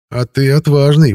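high, loud taunting snarl; bare teeth and taunt; snarling ghost. A narrator's reading. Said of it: "оскалился призрак". (оскалившись, с издёвкой)

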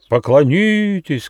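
high slow shouted demand; crowd shouting. A narrator's reading. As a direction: yell it as an angry crowd. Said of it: "кричали гости".

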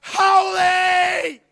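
loud exclaimed holy; startled exclamation. Retold or imitated. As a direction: blurt it out in astonishment. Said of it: "before going".

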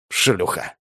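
a hint of a gloating boss; smirking insult. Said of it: "ухмыльнулась свинья".

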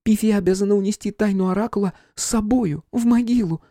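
high, fearful solemn voice; fearful medium. A narrator's reading. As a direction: dare not reveal the secret. Flora afraid of oracle.

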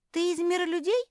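high, loud astonished question. Acted. Pug amazed to see a tiny man, astonished. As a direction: gasp it out in disbelief. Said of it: "поразилась мопсиха".

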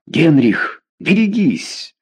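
high, pleading cry of warning. A narrator's reading. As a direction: beg him to stop. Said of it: "с мольбою воскликнула герцогиня". (с мольбой воскликнуть)

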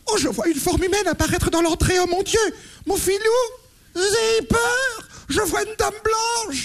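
seance medium. Acted. Medium describes a ghost.

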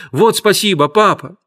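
overjoyed thanks. A narrator's reading. Boy thanks his father, overjoyed. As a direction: thank him, bouncing with joy. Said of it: "запрыгал от радости".

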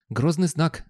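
a hint of a talking dog's sly commentary. Talking dog comments from knee level.

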